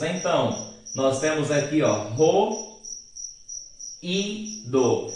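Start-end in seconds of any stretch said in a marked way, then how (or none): 1.8-5.1 ro, i, do said as separate syllables with pauses between them, i raised; slow syllable-by-syllable demo of ro, i, do; split into syllables. Shown as a demonstration. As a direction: spell out ro, i, do syllable by syllable. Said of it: "Veja que a letra I está sozinha".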